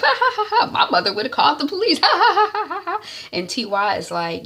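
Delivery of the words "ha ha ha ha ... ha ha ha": high, loud laughing through the words; cracking up. Retold or imitated. Mide laughing about TY's praying mother. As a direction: laugh hard while talking. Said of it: "And Mide is cracking up".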